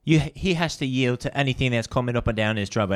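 lightly imitated Australian lady cop; a hint of Australian policewoman; Australian accent. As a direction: repeat her words in a mild Aussie accent. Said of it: "'cause her accent was hot".

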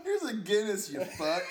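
mock gruff bartender. Voicing the bar guy.

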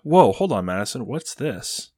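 high-pitched feigned astonishment; stage a big surprised reveal; rising, playful disbelief; mock surprise. Feigns shock at post-credit scene.

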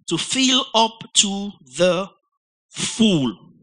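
slow, deliberate stress on "fill" and "full"; emphasized slowly. Shown as a demonstration. Preacher stresses to his congregation, slowly hitting "fill" and "full". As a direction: lean hard on "fill", then land on "full". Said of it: "I know why I'm emphasizing".

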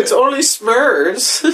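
hammed-up Asian accent, high and drawn out; mock Asian accent. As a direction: stretch it out in a jokey Asian accent. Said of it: "like, an Asian accent".

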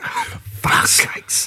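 slow, hushed whisper of dread, played for laughs; whispered mock dismay. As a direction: whisper it slowly, as if imitating someone doomed. Acting out reaction to intimidating silhouette.

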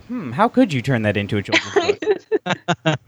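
slow, lightly voiced teacher musing; a hint of a patient schoolteacher, drawn out. Pretending to be a teacher about the story, slow and musing. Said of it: "I just went all teacher".

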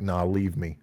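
low, soft dying-hero line; mock dying hero. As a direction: hand over the noble sacrifice in a low hush. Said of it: "the hero version is he's like".

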